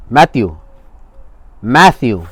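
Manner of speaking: loud call of his name; urgent call to a friend. Retold or imitated. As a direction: call his name sharply to rouse him. Calling out to an unresponsive friend.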